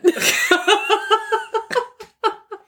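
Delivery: whooping crowd cheer, hammed up; fake cheer. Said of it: "That was a good fake cheer".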